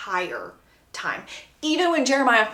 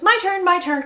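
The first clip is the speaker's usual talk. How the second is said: eager interruption; 8 semitones higher, 4 dB louder than usual. Acted. Belly breaking tension, eager.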